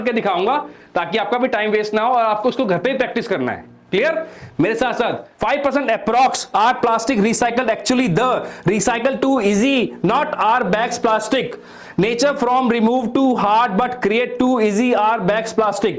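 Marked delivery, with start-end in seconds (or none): 5.4-15.9 slow, word-by-word reading of reversed English; slow reverse reading aloud. Shown as a demonstration. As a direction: read each word out slowly and deliberately. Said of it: "मैं आपको पढ़ के दिखाता हूं कैसे पढ़ना है।". (धीरे-धीरे उल्टा पढ़कर दिखाना)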